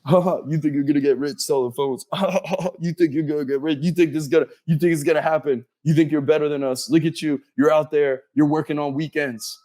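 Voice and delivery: imitating mocking friends. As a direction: jeer like a smug teenage friend. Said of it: "my friends ... were making fun of me".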